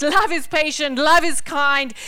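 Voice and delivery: loud declaration. Acted. Declaring scripture.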